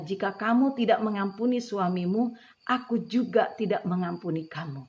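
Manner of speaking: loud commanding divine voice; voice of God. Retold or imitated. God's voice warns the unforgiving wife, loud and commanding. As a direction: proclaim it like God rebuking her. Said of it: "tiba-tiba ada suara berkata".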